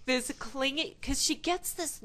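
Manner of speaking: words breaking into laughter; laughing. Real, not acted. Laughing while describing.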